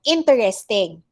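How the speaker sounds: "Interesting" in four syllables, in-ter-res-ting; accepted variant. Shown as a demonstration. Teacher showing the accepted form, in-ter-res-ting with four syllables. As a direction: sound the middle E in "Interesting". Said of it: "sometimes they accept this one".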